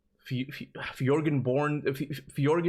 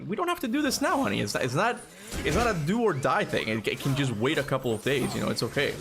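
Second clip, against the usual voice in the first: reassuring; 3 semitones higher than usual. Retold or imitated. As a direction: soothe him, there's no rush. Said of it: "I'm like".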